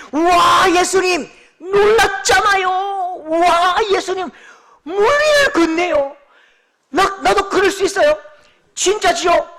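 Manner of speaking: high, loud cries of delight; thrilled shouting. Acted. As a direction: shout it like a giddy disciple seeing Jesus on the water. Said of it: "설레임으로요".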